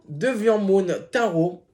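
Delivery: English title read in a strong French accent. Real, not acted. Vlogger apologising to English speakers, reads the title in a French accent. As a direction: say it like a French speaker who admits his English is bad. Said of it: "mon accent de merde".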